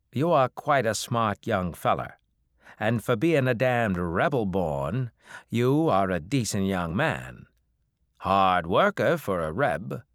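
put-on a crusty old farmer spinning a tale; old backwoods farmer. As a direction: hill farmer warning off the revenuers. Old farmer lecturing Tyler.

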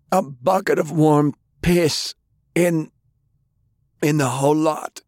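high, emphatic deathbed declaration; forceful. A narrator's reading. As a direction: proclaim it in halting bursts for all to hear. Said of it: "he spoke with force".

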